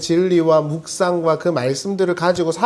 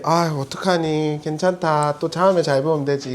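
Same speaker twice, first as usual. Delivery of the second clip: gentle comforting F. Retold or imitated. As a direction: comfort them like a caring friend. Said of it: "이건 F 이런 거죠".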